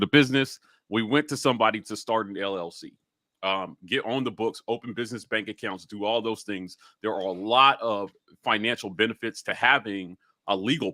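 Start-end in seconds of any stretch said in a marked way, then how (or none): none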